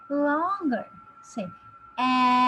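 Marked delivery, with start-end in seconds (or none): 2.0-2.4 drawn out m hum; long m sound. Shown as a demonstration. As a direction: stretch the m longer. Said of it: "pronounce the letter sound a bit longer".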